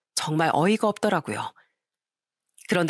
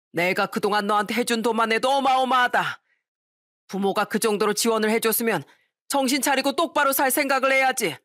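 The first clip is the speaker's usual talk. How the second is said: a hint of a furious old father, pitch raised; mild angry scolding; 4 semitones higher than usual. Father scolding his greedy son, a touch angry. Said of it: "이렇게 소리치시더군요".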